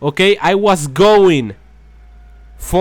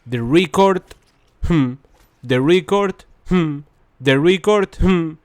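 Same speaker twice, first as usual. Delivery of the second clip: imitating the glitched audio loop. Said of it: "I was saying".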